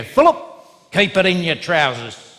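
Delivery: a hint of a peculiar old auntie warning her nephew; lightly voiced aunt. Auntie Madge warns boy skipping to school, lightly acted scolding call. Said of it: "and she'd go".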